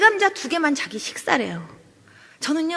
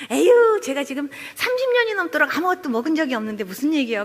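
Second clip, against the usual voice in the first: sighing dismissal; 2 semitones higher than usual. Retold or imitated. Sick woman to her visitor who urges eating, sighing dismissal. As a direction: wave the suggestion off with a big "에휴".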